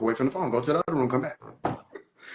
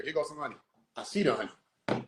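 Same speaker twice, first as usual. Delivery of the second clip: low, quiet mock vision voice; mock dreamy seer; 4 semitones lower, 7 dB quieter than usual. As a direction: murmur like seeing a vision.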